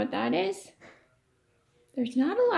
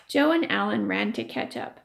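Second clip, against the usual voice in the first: lively read-aloud voice for the class; story reading; 3 semitones higher than usual. A narrator's reading. Teacher reading a chapter to her class, storytelling voice.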